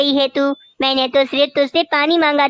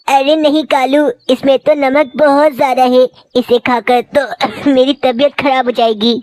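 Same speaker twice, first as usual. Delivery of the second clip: put-on coughing old mother; 4 dB louder than usual. Mother-in-law chokes on salty food.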